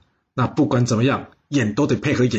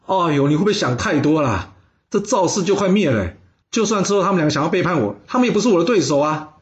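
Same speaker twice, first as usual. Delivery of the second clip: amused dismissal; 5 semitones higher than usual. Acted. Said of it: "听完笑着说".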